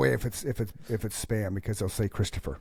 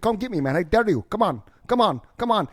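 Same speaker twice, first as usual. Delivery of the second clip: much higher, loud taunting yell; imitated yelling scammer; 8 semitones higher, 6 dB louder, faster than usual. Scam caller yelling a dare at the fake cop, loud and high. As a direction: shout the dare back like an angry caller. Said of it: "he's fucking yelling at me".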